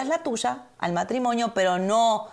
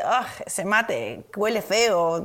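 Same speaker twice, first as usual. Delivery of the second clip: slow, drawn-out disgusted complaint mimicking Santi; mock his grossed-out tone, stretching it out; imitating husband's disgust; much slower than usual. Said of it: "a veces dice". (imitando con asco exagerado y lento)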